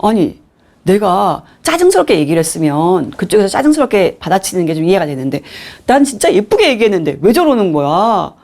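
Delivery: acted indignant inner grumble; 억울한 불평. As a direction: complain as if wronged, voice lifting at times. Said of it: "화가 나고 억울하죠". (억울해서 따지듯 투덜대는 말투)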